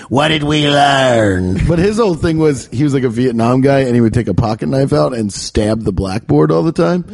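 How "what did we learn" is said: slow, drawn-out question; the teacher quizzing the class, slowly. Retold or imitated. Teacher back from a smoke break, slow and drawn out. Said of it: "He's like".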